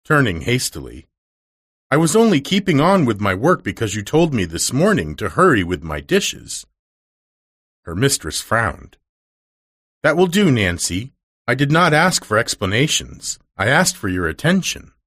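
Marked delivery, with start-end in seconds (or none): 1.9-6.7 lightly voiced anxious servant girl explaining; a hint of a nervous maid; flustered young maid. 10.0-14.9 lightly voiced stern lady cutting her off; a hint of a cold, strict mistress; severe mistress. Mistress rebukes maid.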